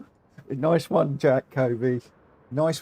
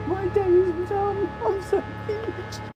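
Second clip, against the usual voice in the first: mock villain gloat; slower than usual.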